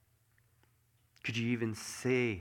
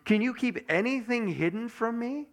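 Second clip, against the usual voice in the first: higher and louder, a proud demanding God; God rounding on a doubter, pitched up and loud; challenging voice of God; 10 semitones higher, 5 dB louder than usual. Acted.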